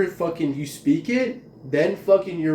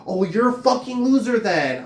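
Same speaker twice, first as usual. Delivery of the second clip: high mocking heckler voice; heckler's insult; 6 semitones higher than usual. Vlogger voices the heckler's insult in a high sneer. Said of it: "I'm like".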